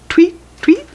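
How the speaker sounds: bird tweet. Shown as a demonstration. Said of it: "This little guy goes".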